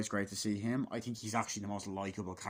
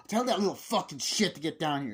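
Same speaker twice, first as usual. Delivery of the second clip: raised, high irritated retelling; mock angry parent; 6 semitones higher, 5 dB louder than usual. Parent ordering the kid downstairs, mock angry. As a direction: imitate a fed-up parent, louder.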